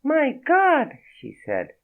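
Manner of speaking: high, breathy French woman's voice. A narrator's reading. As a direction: play her high and startled with a French accent. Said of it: "She screamed".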